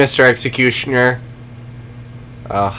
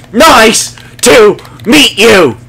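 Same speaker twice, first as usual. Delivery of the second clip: slow, high and louder, stretching MEET; drawn-out greeting; 8 semitones higher, 6 dB louder, much slower than usual. Acted. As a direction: draw every word out like talking to a puppy. Greeting dogs, said again slower.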